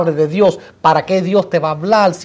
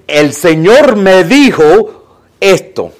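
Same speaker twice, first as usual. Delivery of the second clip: mock pronouncement; 4 dB louder, much slower than usual. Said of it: "cuando alguien te dice".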